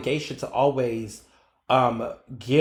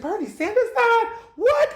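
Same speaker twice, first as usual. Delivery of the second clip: very high shrieking disbelief; hearing a favourite politician died, a high stunned cry; shocked. Retold or imitated. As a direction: squeal it out in total shock. Retold shock at the news.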